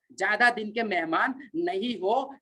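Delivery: drawn out, word by word; slow emphatic repeat. Real, not acted. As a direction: stretch the warning out slowly for weight. Repeats warning slowly for emphasis.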